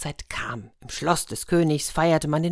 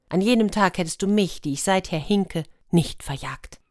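cooing dove. Acted. The hen dove speaks again.

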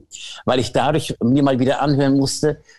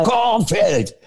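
high mock rock singer, voice lifted; imitating a high singer; 8 semitones higher than usual. Imitating the rock singer's high notes, lifted mock voice. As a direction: reach up high on "Kornfeld" like a singer hitting the top. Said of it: "der hat ja so eine geile Stimme, wenn er in die Höhen geht".

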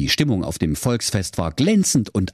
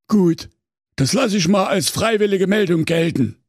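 high, prim, officious executioner; meek executioner voice; 11 semitones higher than usual. A narrator's reading. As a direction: primly take it as a yes. Executioner accepts the refusal.

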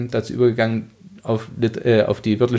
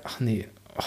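muttered disappointment; 2 semitones lower, 11 dB quieter than usual. Retold or imitated. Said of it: "wo ich gedacht".

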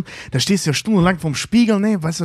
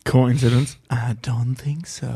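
mock conspiracy whisper; 2 semitones lower, slower than usual. Mock conspiracy meme line.

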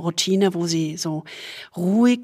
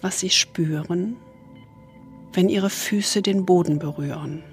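soothing spa whisper; 4 dB quieter than usual. Acted. Leads a body scan meditation.

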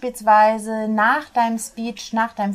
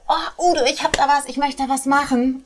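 higher, bubbly eager pitch; 5 semitones higher than usual. Retold or imitated. Someone pitching plans to Udo, eager and higher. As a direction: pitch a big idea with a lifted, excited voice. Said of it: "man kommt mit irgendwelchen tollen Plänen und sagt".

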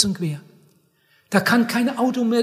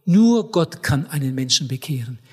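objector; 7 semitones lower than usual. Retold or imitated. Acted objector in a dialogue.

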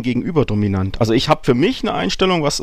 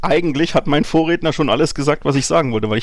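clipping distorted mic; 3 semitones higher than usual. Real, not acted. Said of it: "du übersteuerst ganz fürchterlich".

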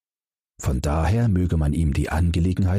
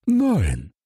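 gasping no; 9 semitones higher than usual. A narrator's reading. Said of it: "schnappte nach Luft".

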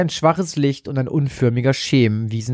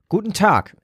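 bright, higher friendly greeting; 7 semitones higher than usual. A narrator's reading. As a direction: greet him kindly and openly. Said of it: "erwiderte Saskia freundlich".

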